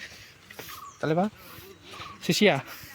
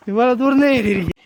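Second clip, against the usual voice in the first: raised pitch, falling at the end; high exclamation; 4 semitones higher than usual. Acted. Climber to companions about how far they have climbed, high exclamation. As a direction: exclaim it high, then let it drop. Repeats the climbing complaint two ways.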